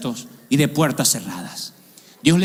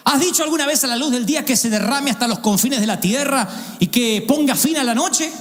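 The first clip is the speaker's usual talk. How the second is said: higher, grand rhetorical questions; God grilling Job, grand and higher; God questioning Job; 5 semitones higher than usual. Acted. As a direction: build God's questions one on another. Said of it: "Lo voy a leer tal cual".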